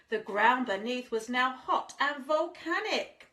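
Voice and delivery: lilting rhymed storybook read; sing-song storyteller voice; reading to children. A narrator's reading. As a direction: read it like a bedtime picture book. Rhyming story read aloud.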